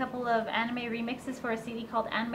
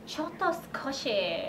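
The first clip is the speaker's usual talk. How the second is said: put-on Valley Girl Japanese; 2 semitones higher, 4 dB quieter, slower than usual. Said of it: "speak Japanese in a valley voice".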